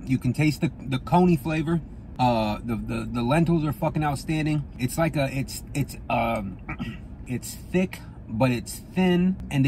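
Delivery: chewing while talking; talking between spoonfuls of chili; mouth full. Real, not acted.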